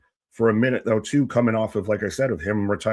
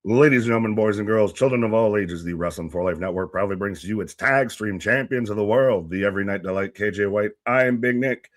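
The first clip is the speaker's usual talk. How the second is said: grand entrance announcement. Acted. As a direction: ring announcer intro, booming. Ring-style intro of the hosts.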